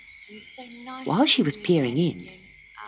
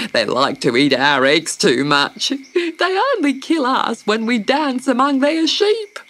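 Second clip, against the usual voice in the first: lightly voiced big bird; a hint of a chatty emu; big bird warning about the poison. The emu speaks.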